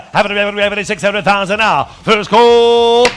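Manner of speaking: rapid auction chant; auctioneer. Acted. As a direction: rattle off bids like an auctioneer. Auctioneer running the bidding.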